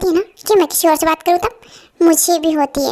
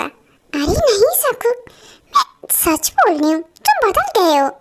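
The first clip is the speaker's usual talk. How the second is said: mock rival imitation; 4 semitones higher, much slower than usual. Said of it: "आयु, तुम ऐसा कैसे सोच सकती हो?".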